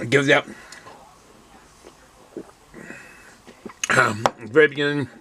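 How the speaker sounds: talking between slurps of beer; slurping. Real, not acted. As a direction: slurp while speaking. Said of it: "Excuse my slurping".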